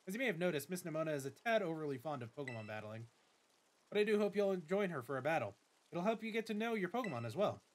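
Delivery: lightly voiced formal school director; a hint of a polite headmaster welcoming a student; Director Clavel. Director greets the new student, lightly formal voice.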